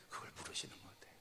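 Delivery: 빠르게 속삭이듯; 비밀 털어놓듯 속삭이기; 속삭임. Real, not acted. (빠른 속삭임)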